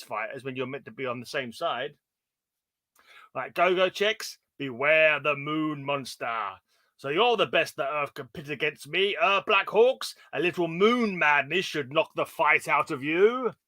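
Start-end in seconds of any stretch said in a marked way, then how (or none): 4.6-13.5 moon monster voice. Acted. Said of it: "the moon monster delivering some moon madness".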